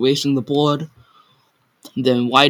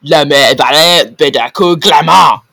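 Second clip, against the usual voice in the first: uncertain; 9 dB louder than usual. Acted. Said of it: "he said uncertainly".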